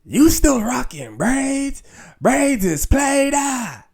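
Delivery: high, slow, sassy put-down; mocking girl voice. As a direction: imitate a snooty girl teasing. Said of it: "I had girls telling me".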